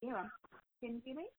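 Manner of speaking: muffled, distant bad phone line; faint caller on a bad Bluetooth line; in a tunnel. Real, not acted. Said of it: "sounds like you're in a tunnel".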